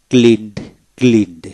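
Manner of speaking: ক্লিনড with the -ed said as a d; final d sounded. Shown as a demonstration. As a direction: end ক্লিনড on an audible d. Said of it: "ইডিতে দ উচ্চারিত হয়". (ক্লিনড, শেষে দ উচ্চারণ)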